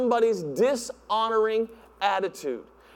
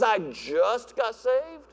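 casual mumble; 3 dB quieter, much slower than usual. Retold or imitated. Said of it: "all you can say is".

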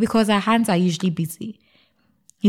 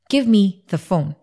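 slow, firmer demand; wife insisting on her husband's phone, slower and emphatic; with more emphasis; 3 dB louder, slower than usual. A narrator's reading. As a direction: press every word, slowly. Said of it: "I said with more emphasis".

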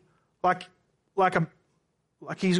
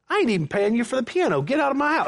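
mock angry outburst; 4 semitones higher, faster than usual. Imagined angry reply to the pastor.

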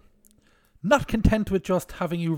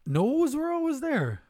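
mock Christopher Walken; 9 semitones higher, slower than usual. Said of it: "Christopher Walken".

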